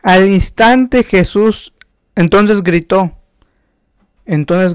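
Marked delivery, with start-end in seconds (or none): 0.0-3.2 slow, loud and high proclamation; rising preacher's cry; loud preaching. Acted. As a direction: lift the voice and draw it out. Preacher building to climax.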